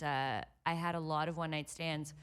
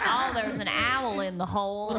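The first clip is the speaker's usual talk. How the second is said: mock British; 5 dB louder than usual. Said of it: "What accent did he have?".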